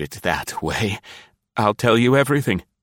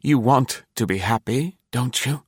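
higher-pitched, persuasive promise; exclaiming eagerly; 6 semitones higher than usual. A narrator's reading. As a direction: coax her with mild excitement. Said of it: "he exclaimed".

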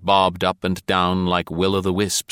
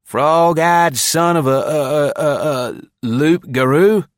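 higher, louder, slow, groping for the word; desperate insult; 9 semitones higher, 6 dB louder, slower than usual. A narrator's reading. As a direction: splutter the insult, stuck for a word. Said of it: "he finished desperately".

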